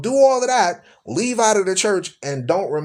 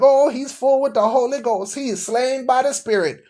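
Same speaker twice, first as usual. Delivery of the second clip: awed churchgoer; 7 semitones higher than usual. Retold or imitated. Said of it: "you be looking at 'em like".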